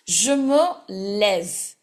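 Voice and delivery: "lève" with an open "eh", said slowly; slow, careful open vowel in "lève"; accent grave sound. Shown as a demonstration. Teacher showing the changed sound, open "eh" in "lève". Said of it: "Your E will take l'accent grave".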